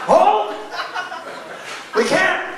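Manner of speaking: strained war cry; Spartan battle cry. Pretend. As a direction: roar like a soldier holding the line. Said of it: "feels like the Spartans".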